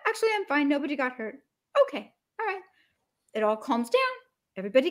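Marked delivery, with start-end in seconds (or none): 0.1-1.3 relieved reply. Retold or imitated. Honked-at driver reassures the apologizer, lightly acted. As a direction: lightly act the calmed-down driver. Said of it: "They're like".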